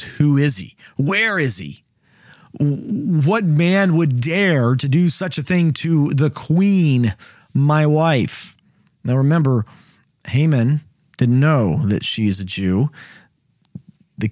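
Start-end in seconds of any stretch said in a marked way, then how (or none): 0.0-8.5 a hammed-up angry king, slow and pressing on "man"; king furious at whoever threatened his queen. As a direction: demand it like an enraged husband. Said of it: "And the king is furious".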